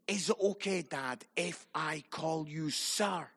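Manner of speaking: softly voiced, slowing son; retold respectful request. Son asking his dad to call him sir, soft and respectful. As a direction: ask it gently, easing into the last words.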